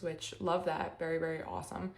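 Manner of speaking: flat-out praise that comes off sarcastic; unintentionally sarcastic. Real, not acted. Reader praising Buddhism to viewers, sounding sarcastic. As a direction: sound accidentally sarcastic while meaning it. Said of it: "that sounded so sarcastic".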